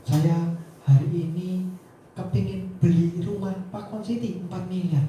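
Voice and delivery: low, slow wishful employee voice; a lightly voiced daydreaming worker; dreamy employee.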